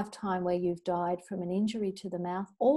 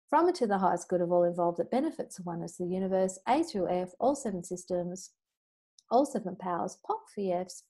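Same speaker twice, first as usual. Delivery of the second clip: clearing statement recital. Acted.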